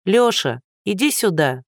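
mild call across the snow. Acted. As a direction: call him back to the car. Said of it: "позвала Лиза".

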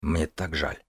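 soft whispered regret. Acted. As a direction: breathe it out, sorry. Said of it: "прошептал я".

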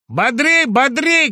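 loud bossy urging to stand up; barked command. A narrator's reading. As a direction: drive them to their feet. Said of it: "командовал свинообразный".

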